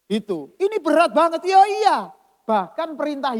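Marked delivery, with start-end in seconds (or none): 0.6-2.0 much higher and louder, insisting; crying out in agreement that it is hard; emphatic exclamation. Real, not acted. Emphatic agreement, very loud and high. (berseru keras dan tinggi: "Ini berat banget")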